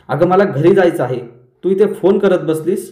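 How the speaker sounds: mother scolding her daughter, half-voiced yell; narrated yell. Mother yells at daughter stuck making phone calls, mock yell. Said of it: "पण मैनावती ओरडते".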